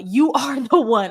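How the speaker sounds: amused laugh mid-phrase. Real, not acted. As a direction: laugh breaking into the words. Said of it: "I'm just laughing because".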